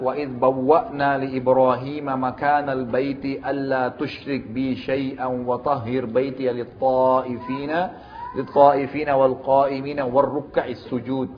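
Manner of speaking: slow, measured Arabic recitation with drawn-out vowels; Quran recitation. Real, not acted. Preacher reading verse twenty-six aloud, reciting slowly. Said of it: "Baik, saya bacakan".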